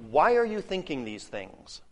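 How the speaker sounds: pointed rebuking question; rebuke. Shown as a demonstration. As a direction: scold them with the question. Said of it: "it is a rebuke".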